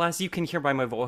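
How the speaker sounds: Jennifer Aniston impression. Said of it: "this is Jennifer Aniston here".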